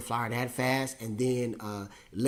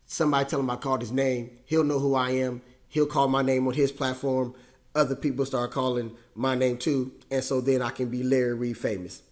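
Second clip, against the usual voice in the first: louder, fast, building joke; playful excitement; 5 dB louder than usual. Real, not acted. Preacher joking to the congregation, excited and louder. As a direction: tease the crowd about fame. Joking about church fame.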